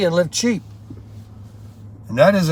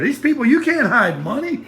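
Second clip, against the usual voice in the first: laughing; 10 semitones higher than usual. Real, not acted. Laughing about new appliances.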